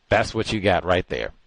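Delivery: ordinary delivery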